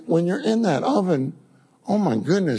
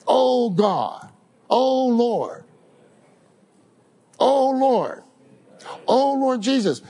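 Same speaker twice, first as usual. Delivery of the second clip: fervent calling; 6 semitones higher, slower than usual. Shown as a demonstration.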